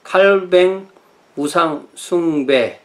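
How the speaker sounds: 칼뱅 우상 숭배 in slow, separated Korean syllables; deliberate Korean 칼뱅, stretched and set apart; Korean rendering. Shown as a demonstration. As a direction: spell out 칼뱅 우상 숭배 word by word. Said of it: "한국말로 하면은".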